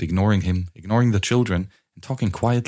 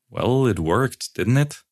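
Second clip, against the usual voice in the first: soft; 4 semitones higher, slower than usual. Acted. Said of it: "looked up softly at her and said".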